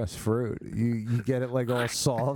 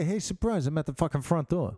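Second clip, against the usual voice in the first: higher, fast mock greeting; mock cheery shout; 4 semitones higher than usual. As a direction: chirp it like a grinning boyfriend. Acting a guy at the door.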